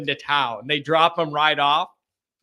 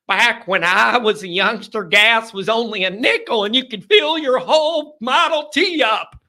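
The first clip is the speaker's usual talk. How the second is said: mock old-timer; 5 semitones higher, 3 dB louder than usual.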